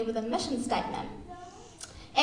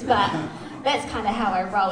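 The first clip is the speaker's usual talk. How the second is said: laughing; 3 semitones lower, 4 dB louder than usual. Real, not acted. Laughing at own bare feet.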